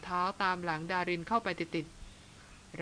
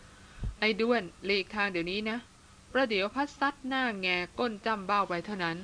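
ordinary delivery, nothing marked

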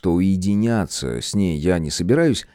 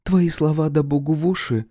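much higher, sour sweet woman's voice; grimacing woman Irka; 8 semitones higher than usual. Acted. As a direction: greet him through a wry face. Irka replies.

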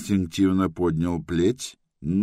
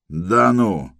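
louder fake-surprised exclamation; mock surprise; 3 semitones higher, 6 dB louder than usual. A narrator's reading. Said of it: "притворно удивился охранник".

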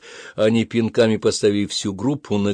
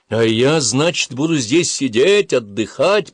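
louder, raised-pitch indignant protest; burn with indignation at being left behind; offended, incredulous challenge; 5 semitones higher, 5 dB louder, slower than usual. A narrator's reading. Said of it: "пылал негодованием Джаред".

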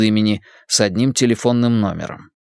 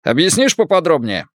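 put-on Irish accent; 6 semitones higher than usual. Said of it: "Ирландский акцент работал на всю катушку".

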